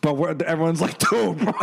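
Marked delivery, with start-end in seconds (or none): 1.0-1.5 retold giggly aside between buddies; giggling. Friends in the corner mocking him, giggling. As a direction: talk through giggles. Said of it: "we're all, like, giggling".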